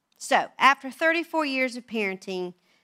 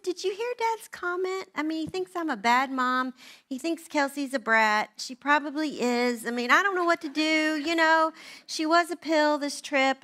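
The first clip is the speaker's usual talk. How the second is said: higher, fretful complaint to husband; upset retelling; 5 semitones higher than usual. Retold or imitated. Wife venting to husband in the car, higher and fretful. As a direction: pour it out, worried and high. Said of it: "And I just said".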